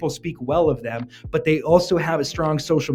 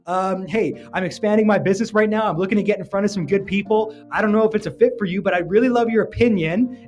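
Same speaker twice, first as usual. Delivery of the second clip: friendly pitch; 5 semitones higher than usual. Retold or imitated. Young salesman pitching the neighbor at the door, bright and eager. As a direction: charm the neighbor into listening. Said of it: "I'd be like".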